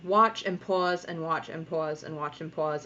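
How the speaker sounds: real Rhode Island accent slipping out. Real, not acted. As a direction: let a Rhode Island accent come out on "pause". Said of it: "my Rhode Island accent just came out very hard".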